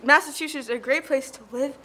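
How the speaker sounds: trying not to laugh; stifled giggles. Real, not acted. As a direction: say it while holding back giggles. Laughing through a line.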